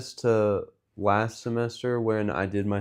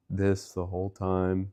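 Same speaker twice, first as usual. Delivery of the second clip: mock sluggish talk, slower and softer; low-energy imitation; 5 dB quieter, slower than usual. Co-host mimicking how they talked without caffeine, sluggish. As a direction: imitate a drained, uncaffeinated host. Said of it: "didn't drink caffeine and we were talking like".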